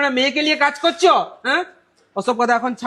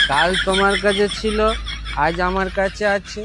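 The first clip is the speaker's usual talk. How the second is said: put-on town drunk; 3 semitones lower than usual. Drunk man philosophises, offers drink.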